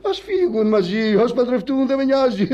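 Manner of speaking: wailing protest. Acted. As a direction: insist through a whine that it doesn't matter. Claims not to care, distraught.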